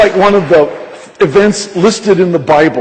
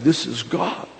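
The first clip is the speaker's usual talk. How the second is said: softly voiced amazement; hushed awe, retold; 2 semitones lower, 10 dB quieter, slower than usual. Preacher quotes the crying cashier to the congregation, hushed awe. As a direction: say it small and soft, imitating someone in tears.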